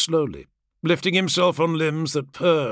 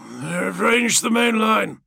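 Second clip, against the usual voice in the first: high, slow, raised call; involuntary battle report; 8 semitones higher, 3 dB louder, slower than usual. A narrator's reading. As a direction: call it out slowly as an urgent warning. Involuntary words of dazed waking warrior.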